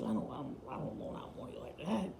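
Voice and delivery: hushed, breathy imitation of Michael's whisper. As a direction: lean in and whisper it like a secret warning. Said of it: "gets done whispering to you".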